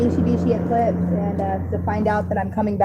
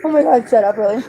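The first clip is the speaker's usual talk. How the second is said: surprised exclamation; 2 semitones higher, 8 dB louder than usual. Real, not acted. Shocked delighted reaction.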